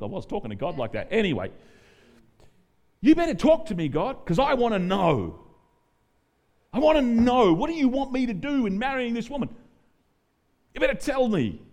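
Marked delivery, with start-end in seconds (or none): 3.0-11.6 loud, high, furious demands; angry young man yelling at God in his car. Retold or imitated. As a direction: shout your ultimatum at God. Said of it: "that tense with God".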